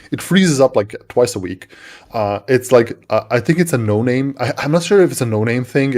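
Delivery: ordinary talk, nothing marked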